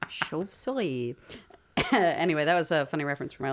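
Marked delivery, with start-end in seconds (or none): 0.1-1.2 slow, careful French "Chauve-souris"; French pronunciation. Shown as a demonstration. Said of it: "Do you wanna know the French word for".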